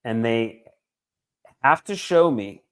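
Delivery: spaced out with long pauses, feeling building; real rising emotion, phrase by heavy phrase; getting emotional. Real, not acted. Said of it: "Sound like you're getting emotional".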